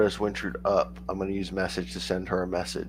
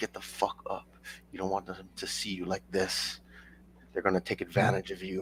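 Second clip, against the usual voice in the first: soft, private half-whisper, very close up; 8 dB quieter than usual. Half-whispering to a sobbing party member, urging her to get up: half-whispering in character. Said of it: "I will get close and whisper to her".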